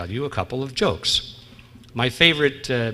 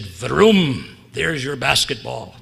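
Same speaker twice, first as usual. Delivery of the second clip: genie's magic vroom; much slower than usual. Acted. Genie grants wish.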